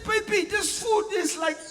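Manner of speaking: husband gushing over his wife's food; hammed-up praising husband. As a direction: overdo the compliment with a laugh.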